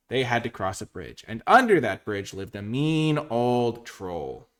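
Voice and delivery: animated bedtime-story telling, swooping intonation; fairy-tale narration. A narrator's reading. Streamer telling the Billy Goats Gruff tale, animated storytelling. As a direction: tell it like a children's storybook, stretching key words.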